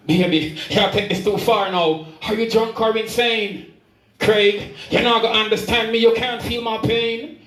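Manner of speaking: rhythmic recital of a dramatic dialogue; spoken-word poem. Acted. Poet retelling a hurt woman's confession, spoken-word recital. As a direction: carry the verse along in steady rhythm.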